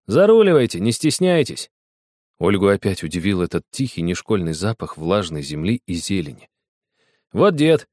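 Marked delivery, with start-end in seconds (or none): 0.1-1.7 offhand boyish swagger, voiced high; casual careless invite. A narrator's reading. Cocky boy waving girls into the classroom, careless. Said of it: "Небрежно сказал". 7.3-7.9 put-on bold boy announcing himself, raised voice; loud boyish call. A narrator's reading. Boy loudly announcing to the old botanist, bold. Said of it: "громко сказал Огоньков".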